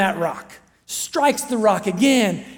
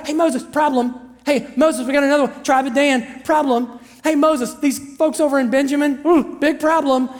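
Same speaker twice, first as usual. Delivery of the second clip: higher, insistent interruptions; mock pestering; 3 semitones higher, 3 dB louder than usual. Tribes bringing Moses one problem after another, mock pestering. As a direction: break in urgently with problem after problem.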